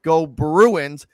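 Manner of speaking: hyped sports chant, loud and rallying; frat bro. Pretend. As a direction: pump up the crowd like a rowdy fan. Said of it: "so we're gonna say".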